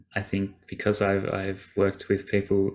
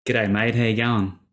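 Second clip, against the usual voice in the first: Australian accent. Shown as a demonstration. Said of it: "can you repeat, please?".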